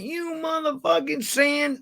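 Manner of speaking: high, drawn-out yell at the scammer; retold shout. Caller yells at phone scammers, slow high shout.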